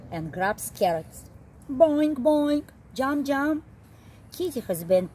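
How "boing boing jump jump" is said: high, bouncy boing and jump; bouncy game sounds. Acted. Reading the video game's bunny jumps, high and bouncy.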